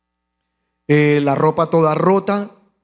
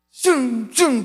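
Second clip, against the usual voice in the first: imitated whoosh of passing motorbikes; motos pasando zumbando; 6 semitones higher than usual. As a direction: make a zooming bike noise. (zumbido de motos que pasan)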